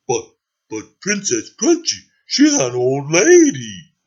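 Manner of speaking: hesitant servant's plea; slow, pleading objection; protesting driver. Acted. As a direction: timidly appeal to a royal boss. Driver timidly objects to order.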